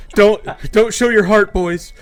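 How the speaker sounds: loud, high, fake-serious preaching; hammed-up tongue-in-cheek lecture; mock sarcastic advice. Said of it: "I'm kidding. I'm kidding".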